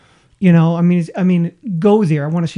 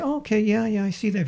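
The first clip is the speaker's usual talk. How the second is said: calmly; 3 semitones higher, 6 dB quieter than usual. Retold or imitated. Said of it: "very calmly".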